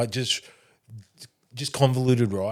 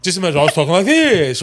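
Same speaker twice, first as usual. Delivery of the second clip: weird cadence; 5 semitones higher, 6 dB louder, faster than usual. Shown as a demonstration. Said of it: "It was a weird cadence I was in".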